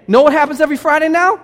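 loud teasing question. Real, not acted. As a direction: set up the joke with punch. Preacher building to punchline.

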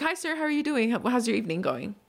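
bright high-pitched greeting; high customer-service voice. Retold or imitated. Greeting hotel guest, retold.

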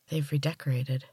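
soft. A narrator's reading. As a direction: say it softly, in wonder. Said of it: "Gemma said softly".

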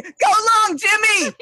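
put-on high, loud little kid calling out; mock kid voice. Kids grabbing thrown candy, in a high mock child voice. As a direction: chirp it like an excited trick-or-treater.

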